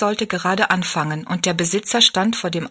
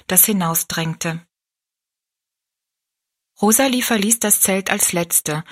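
usual speaking voice

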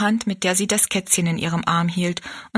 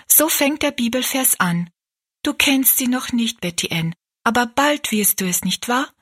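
put-on higher, encouraging girl's voice; lightly voiced Rosalie, explaining; 6 semitones higher than usual. Rosalie explaining the verse to Betty Ann, lightly voiced. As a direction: explain it gently in a lifted young voice.

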